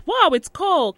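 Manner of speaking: high, loud startled exclamation; retold surprise. Newcomer recalling arrival in a cold place, surprised.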